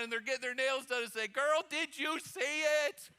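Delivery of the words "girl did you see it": high, drawn-out acted astonishment; excited gossip. Nail salon lady asking her friend, acted excitedly. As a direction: play the amazed salon gossip.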